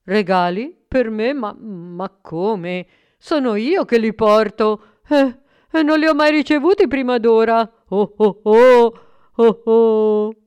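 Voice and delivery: put-on loud, astonished jolly old man; surprised. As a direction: gasp out the disbelief. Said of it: "Babbo Natale era sorpreso".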